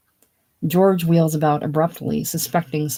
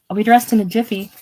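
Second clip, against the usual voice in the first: called out a bit higher and louder, brisk; calling out; 4 semitones higher, 4 dB louder, faster than usual. A narrator's reading. Isabel calling to the men from the bedroom, calling out. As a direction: sing it out through the door. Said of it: "Isabel, calling out".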